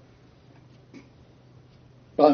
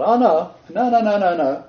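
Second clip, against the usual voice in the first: higher, light mocking no no no; mock meek protest; 5 semitones higher than usual. Preacher mocking the gentle Jesus image, meek protests. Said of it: "this is gentle Jesus, meek and mild".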